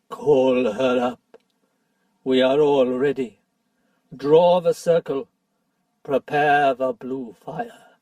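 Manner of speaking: dwarf commanding the dark rite; eager command. Acted. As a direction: urge the ritual on. Nickabrick urges the summoning.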